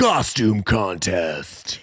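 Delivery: promo voice. Pretend. Goofy promo voice.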